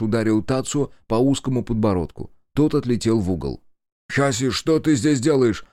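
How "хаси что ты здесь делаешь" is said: rising to a high, loud desperate yell. A narrator's reading. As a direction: shake the answer out of him. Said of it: "кричал Кику".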